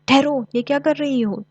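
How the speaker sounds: high, loud cry to stop her; shouting. A narrator's reading. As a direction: shout to stop the fox mid-leap. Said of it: "कोयल चिल्लाई". (कोयल लोमड़ी को रोकने के लिए ज़ोर से चिल्लाती है)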